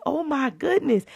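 emotional. Retold or imitated. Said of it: "I was like".

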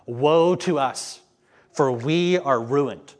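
slow, loud cry of woe; dramatic scripture reading. Acted. Preacher reading the warning of invaders, slow and loud. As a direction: proclaim it like a watchman crying out.

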